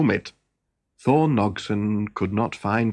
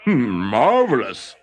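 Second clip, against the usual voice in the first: delighted shout; 4 dB louder than usual. Acted. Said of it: "shouted Thornogson".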